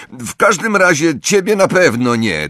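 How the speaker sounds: put-on high, nasty child's retort; spiteful high-pitched jab. A narrator's reading. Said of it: "dodał złośliwie".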